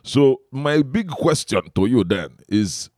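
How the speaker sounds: put-on slow Igbo interviewer's accent. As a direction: ask slowly as an Igbo man. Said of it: "mine is an Igbo man".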